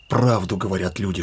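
ordinary talk

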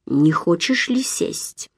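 quiet, slow question through the teeth; сквозь зубы. A narrator's reading. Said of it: "спросил сквозь зубы". (тихо и медленно, сквозь зубы)

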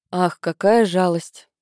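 slow, drawn-out mock pity; sarcastic. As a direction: say it with a biting sneer. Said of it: "съязвила Сара".

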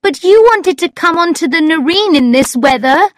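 high-pitched, mildly plaintive protest; sad. A narrator's reading. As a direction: voice her with a touch of sadness. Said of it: "she said sadly".

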